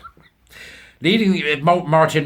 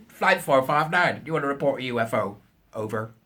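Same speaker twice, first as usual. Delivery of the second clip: radio operator. Retold or imitated. Redoing the controller's radio call.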